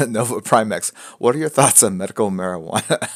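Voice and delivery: chuckling through the question; trying not to crack up; laughing. Real, not acted. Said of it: "I don't know why I find that so funny".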